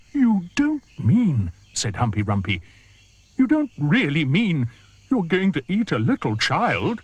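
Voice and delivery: horrified hippo. Acted. Humpy Rumpy horrified at the crocodile's plan. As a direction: gasp it out in dismay.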